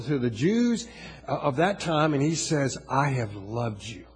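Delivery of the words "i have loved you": low, slow, measured words; God speaking softly and slowly; solemn tender declaration. Retold or imitated. God's solemn declaration to the people.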